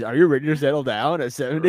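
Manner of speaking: fast, incredulous mock question. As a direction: poke fun at the question. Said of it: "That's such a funny question".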